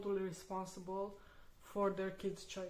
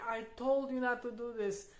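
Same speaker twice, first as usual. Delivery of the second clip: reproachful; 3 semitones higher, 4 dB louder than usual. Retold or imitated. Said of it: "take it personally".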